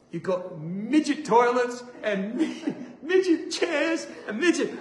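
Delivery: high-pitched indignant ranting through laughter; laughing complaint. Retold or imitated. Patient complaining of tiny chairs, laughing outrage. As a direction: protest in comic outrage, giggling.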